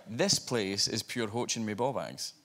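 slow, broad Scottish accent; broad Scottish phrase. Shown as a demonstration. Scotsman testing a phrase on an American guest, broad Scottish. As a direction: lay on the Scots, unhurried. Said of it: "I tried a Scottish phrase".

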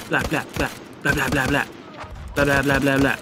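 rapid string of mouth-made shots; gunfire imitation. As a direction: mimic bursts of gunfire.

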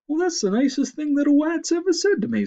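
high, loud, moved moose; sniffling moose. A narrator's reading. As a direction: gush it through the sniffles. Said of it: "sniffed Micah".

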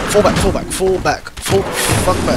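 urgent high shout, retreat; shouting orders over battle. Real, not acted. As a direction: yell at yourself to retreat. Yelling retreat during fight.

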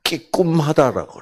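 끼꿈하다 said as kikumhada in Gyeongsang dialect; 경상도 사투리로 끼꿈하다; Gyeongsang dialect word. Shown as a demonstration. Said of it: "경상도 말로 하면".

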